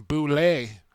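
Boulay said with a light French accent, boo-LAY; a quick mock French accent on Boulay; Boulay in a playful hint of French. Shown as a demonstration. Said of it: "That's my French accent".

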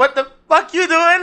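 slow, high-pitched mock protest; drawn-out mock outburst. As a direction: stretch out the outraged question, playing it for laughs. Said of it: "Or more like".

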